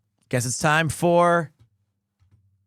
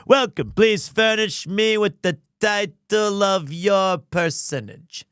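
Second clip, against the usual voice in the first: Zach Brannigan; 3 semitones higher than usual. Pretend. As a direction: draw it out like a self-important captain. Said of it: "Zach Brannigan?".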